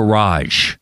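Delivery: "garage" as guh-RAHZH. Retold or imitated. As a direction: say "garage" with a weak first syllable, long AH. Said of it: "can you do an American accent".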